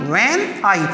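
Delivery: "when" unstressed, then "आई" stressed. Shown as a demonstration. Teacher sounding out an iamb for students, stress on "आई". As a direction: let "when" go weak and lean on "आई". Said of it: "stress लग रहा है इसमें".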